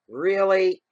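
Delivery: loud, high, long-drawn "really"; exaggerated disbelief. Repeats it, escalating disbelief.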